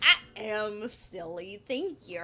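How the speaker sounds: playfully over-the-top silly voice; silly voice for kids. Retold or imitated. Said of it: "I do silly voices for the kids".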